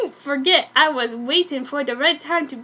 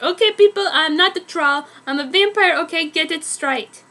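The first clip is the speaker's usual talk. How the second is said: indignant; 3 semitones higher, 3 dB louder than usual. Acted. Indignant author's note read aloud.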